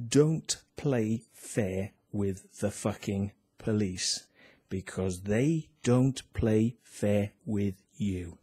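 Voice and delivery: very slow, solemn moral; preachy lesson. Real, not acted. Giving viewers his life lesson, slow and solemn. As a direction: deliver it like a sermon's last line. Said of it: "So there endeth the lesson".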